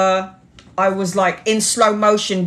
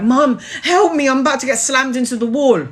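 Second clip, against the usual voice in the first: screaming for help; 6 semitones higher, 3 dB louder than usual. Retold or imitated. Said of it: "And I'm screaming so loud".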